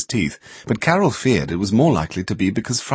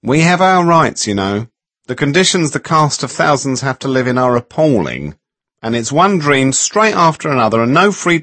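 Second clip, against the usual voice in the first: whiny; 6 semitones higher, 5 dB louder than usual. A narrator's reading. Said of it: "her voice had a bit of a whine".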